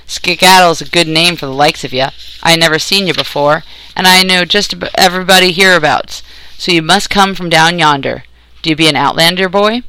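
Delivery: lightly voiced country captor, sizing up a stranger; gruff country captor. Captor sizes up the strange boy, lightly gruff country voice. Captor's dialect in narrated story.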